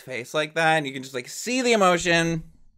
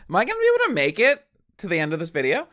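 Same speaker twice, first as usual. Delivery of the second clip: rushed, excited question; 5 semitones higher, much faster than usual. Real, not acted. Fan overwhelmed halfway through a song, rushing. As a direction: tumble it out fast, overwhelmed.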